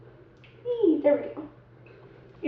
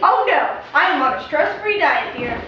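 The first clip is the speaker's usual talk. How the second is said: haughty; 7 dB louder than usual. Pretend. Grand put-on character.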